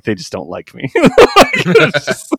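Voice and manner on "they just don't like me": sulky mumble. Retold or imitated. Voicing sulking Fabian.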